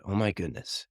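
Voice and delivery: soft, imitated hushed amazement; quiet marvelling. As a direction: marvel softly at what just happened. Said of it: "they marveled".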